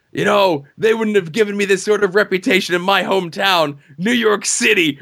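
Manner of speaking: high, shouting at the booing crowd; heel promo. Retold or imitated. Heel racer yelling back at the booing fans. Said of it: "and he goes".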